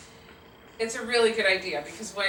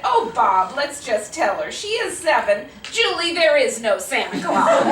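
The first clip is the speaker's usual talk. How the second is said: loud, emphatic mom announcement; exasperated mom, building louder; impatient mother; 5 semitones higher, 7 dB louder than usual. Acted. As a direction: cut through the pretense and break it to the child. Mother bluntly ends the pretense.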